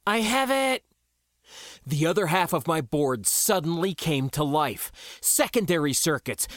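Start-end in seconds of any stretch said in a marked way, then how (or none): 0.1-0.9 high-pitched comm reply; raised, urgent voice; calling back. Acted. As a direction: answer the yell from across the ship. Crewmate answers over comm.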